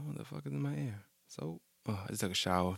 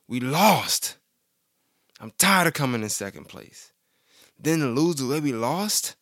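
loser voice; 5 semitones higher, 4 dB louder, slower than usual. Retold or imitated. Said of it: "I'm reading my loser voice".

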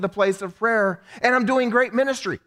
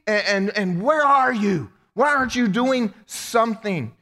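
mock whiny protest, slowing on "where are you"; an exasperated believer venting at God; hammed-up whining prayer; frustrated complaint to God. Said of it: "sometimes say".

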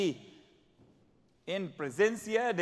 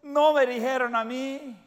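loud, high, indignant complaint; offended grumbling; 4 semitones higher, 6 dB louder than usual. Retold or imitated. Slighted church member complaining, loud and indignant. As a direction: huff that nobody noticed you. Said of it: "y uno dice".

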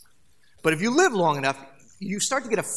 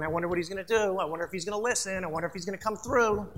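impatient waiting God; much faster than usual. Pretend. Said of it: "tapping his foot, going".

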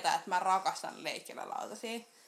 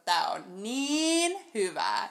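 very slow, teasing mock rave; drawn-out mock enthusiasm; imitated gushing; 4 dB louder, much slower than usual. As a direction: stretch the words out as someone else's raving. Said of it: "kuinka se oli hehkuttanut".

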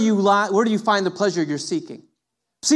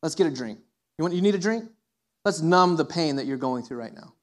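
mock drinking buddy; 4 semitones lower, 4 dB quieter than usual. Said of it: "they walk in and they're".

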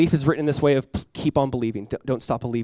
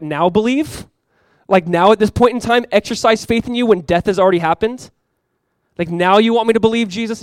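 raised, disbelieving protest; incredulous doubter; 5 semitones higher, 4 dB louder than usual. Acted. Doubter asks Jesus when nothing adds up, incredulous. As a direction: push back in disbelief, pitched up.

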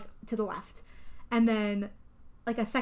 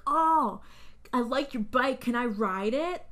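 slightly raised, louder taunting; mock bully taunt; 2 semitones higher, 4 dB louder, slower than usual. Biker bully taunting the clown about his bike, mock-sweet taunt. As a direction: tease like a bully feigning interest. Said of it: "taunting him and bullying him".

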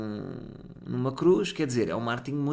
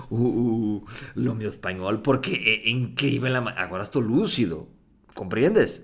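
put-on forced Spanish accent. Boasting to friends in a mock Spanish accent. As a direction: lay on the Spanish accent, pretending to be sober. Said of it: "coloco forzadamente un acento".

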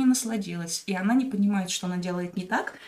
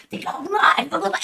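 mock angry yell; 9 semitones higher, 6 dB louder than usual. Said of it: "Он там начинает".

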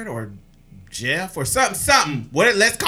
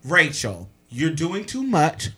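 mildly lowered retold plea; respectful, calming; 3 semitones lower, slower than usual. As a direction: reason with her politely. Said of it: "respectfully calling her her name".

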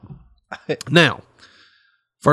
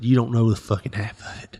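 grim mutter; 6 dB quieter than usual. Acted. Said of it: "He said".

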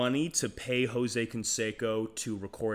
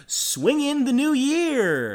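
grand finish; 13 semitones higher, 9 dB louder, slower than usual. Acted. Hammed-up finale to the plug.

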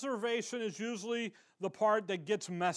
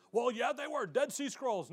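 mock objector; 5 semitones higher than usual. Mocking an objector.

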